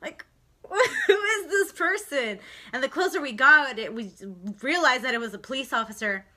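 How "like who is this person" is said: whispering. Retold or imitated. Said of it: "I was like".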